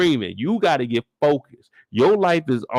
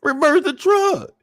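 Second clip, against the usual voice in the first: high, loud, drawn-out command; slow panicked yell; 10 semitones higher, 5 dB louder, slower than usual. Retold or imitated. To the driver again, a slow, high, panicked yell. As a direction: stretch it out in fear.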